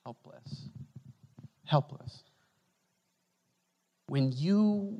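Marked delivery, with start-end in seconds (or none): 0.0-0.7 low, soft Helpless. said almost under the breath; hushed helpless. Shown as a demonstration. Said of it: "utterly what?". 1.7-2.2 Helpless. said out loud and strong; louder Helpless; firm helpless. Shown as a demonstration. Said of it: "utterly what?".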